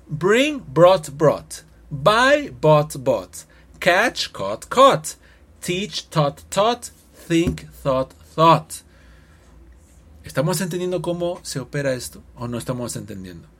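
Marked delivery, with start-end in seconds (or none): 0.1-8.7 teacher's drill voice; clear drill pronunciation. Shown as a demonstration. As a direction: recite the list again for students to copy. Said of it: "Una vez más el grupo tres".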